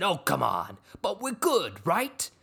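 cajoling, pitch jumping high; theatrical wheedling imitation; Logan Roy. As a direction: press for agreement like a hammy tycoon. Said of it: "the speaker went full Logan Roy".

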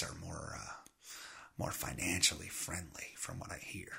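whispered aside. Real, not acted. Comedian whispering an edgy aside to audience. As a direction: drop it to a secret whisper.

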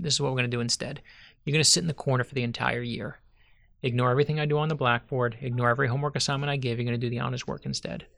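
quick, matter-of-fact retold instructions; brisk teacher's orders. Teacher laying down the plan to a pupil, brisk orders. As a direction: rattle off the rules like a teacher.

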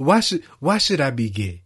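imitating the offended denial; hammed-up offended protest; mock indignant guest. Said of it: "And then he said".

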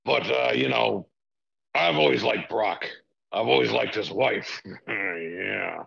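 lightly voiced arrogant boss; a hint of a smug, scheming tycoon; Vince McMahon impression. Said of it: "Mister McMahon".

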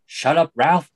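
rising to a high loud shout; Pacino shout. Retold or imitated. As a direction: yell it like an angry cop. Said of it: "where he tells Ralph to sit down".

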